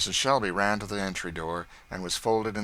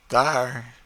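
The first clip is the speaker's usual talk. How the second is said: 1 bitter; 5 semitones higher, 9 dB louder than usual. Acted. Chloe hands back the money.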